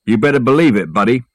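lightly put-on tough movie-star voice; amateur film-star impression; Humphrey Bogart. Porter showing off to his workmate, mild Bogart impression. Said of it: "I said in my best Bogart voice".

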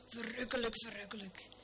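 breathy hushed delight; delighted whisper. Acted. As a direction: savour it in a whisper. Sheep Veronica delighted, whispering.

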